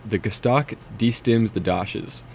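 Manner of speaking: "The Gostak destims the dashes" said slowly, each word spaced; slow deliberate quote. Shown as a demonstration. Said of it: "used in the phrase".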